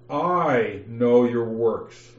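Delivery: "I" stressed, words drawn out slowly. Shown as a demonstration. Teacher rereads the verse, stressing "I". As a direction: lean on "I" and let it crawl. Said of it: "I'm going to emphasize the word "I".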